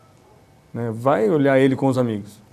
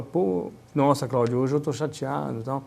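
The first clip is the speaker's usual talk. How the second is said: mildly upset; 4 dB quieter than usual. Shown as a demonstration. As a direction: confide gently that you're a bit down, as an example. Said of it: "porque não tem entonação ali".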